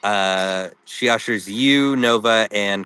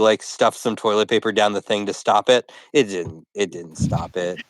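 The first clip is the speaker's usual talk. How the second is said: laughing; 3 semitones higher than usual. Real, not acted. GM laughing through result.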